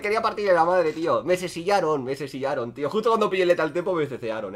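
normal talking voice

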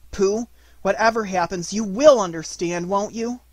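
earnest. A narrator's reading. Boy asks his bear to understand, earnest appeal. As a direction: press for reassurance, lifting at the end. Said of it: "said Christopher Robin earnestly".

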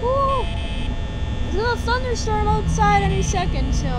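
startled streamer. Real, not acted. Startled by noise, thunder.

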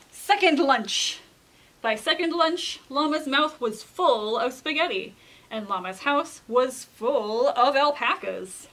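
put-on measured read-aloud to children; storybook narration. A narrator's reading. Reader tells children of Llama's invitation, storybook narration. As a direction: tell it like a picture book, pointing the key words. Reads a picture book aloud.

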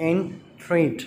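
slow "entreat" in two separate beats; syllable by syllable. Shown as a demonstration. Teacher counting syllables for children, "entreat" slowly split in two. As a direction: break "entreat" into en and treat with a pause. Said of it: "two syllables".

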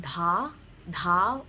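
dha with a puff of air after the D; aspirated dha. Shown as a demonstration. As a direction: breathe out through the D in dha. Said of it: "aspirated are gonna have an H".

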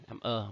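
"ơ" said as the schwa in island; schwa sound. Shown as a demonstration. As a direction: pronounce "ơ" as an uh vowel. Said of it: "là island". (đọc "ơ" như âm giữa trong island)

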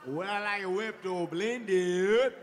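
slow, dazed mumble of the question; nervous repeating. Retold or imitated. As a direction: murmur it back slowly, still stuck. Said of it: "when I get nervous, I just repeat shit".

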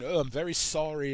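lightly put-on British accent, bumbly and apologetic; a hammed-up British apology, barely shifted; horrible British accent. Imitating the mousy councilor in a bad British accent. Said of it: "I'm doing a horrible British accent".

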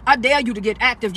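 talking with stitches in mouth; speaking gingerly around fresh stitches; after wisdom teeth. Real, not acted. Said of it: "I still got stitches in my mouth".

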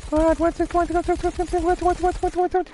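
very high squeal, drawn out; shocked shrieking. Real, not acted. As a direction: squeal what in disbelief. Shocked at game event.

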